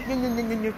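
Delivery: whiny imitation of crying; taunting fake whimper; mock crying. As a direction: mimic a crybaby with repeated nye-nye. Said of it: "why now you are not crying".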